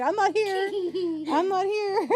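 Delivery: put-on toddler hiding voice. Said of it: "like she's hiding".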